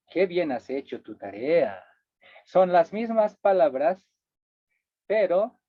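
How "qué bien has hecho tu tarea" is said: dry ironic praise. Shown as a demonstration. Teacher showing ironic praise to the class, sarcastic. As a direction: say it so it means the opposite. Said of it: "la entonación de la segunda expresión me dice que estoy diciendo lo contrario".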